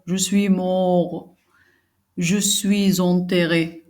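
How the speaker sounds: understated theatrical lament; a hint of a despairing Harpagon; lightly acted grieving miser. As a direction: mourn the lost money in a measured dramatic reading. Reads the miser's lament aloud.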